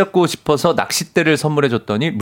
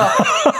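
high laugh. Real, not acted. Host recoils at imagined scene.

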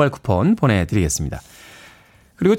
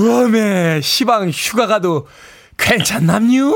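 Chungcheong dialect; 3 semitones higher, slower than usual. Shown as a demonstration. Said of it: "유를 길게 해야지요".

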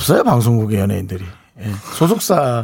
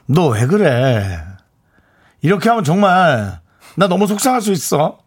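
gentle Seoul scolding; 3 semitones higher than usual. Shown as a demonstration. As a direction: scold so tenderly it sounds like pleading. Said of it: "뭐, 화를 어떻게 내지?".

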